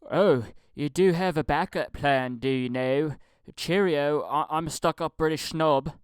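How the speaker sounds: stuck-up British snob. Retold or imitated. Mocking the witty line as condescending, snooty mock-British. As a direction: sneer it like a snooty Brit. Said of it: "condescending and douchey".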